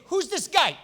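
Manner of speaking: a shocked, loud challenge; indignant disbelief. Retold or imitated. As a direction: ask it like you can't believe the nerve. David's outraged question, look shown.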